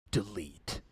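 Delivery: low, soft deadpan; mock dismissive delete. Imitating Jordan coldly deleting Chris's text. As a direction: drop it low and flat-out. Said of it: "that was Jordan's evil laugh".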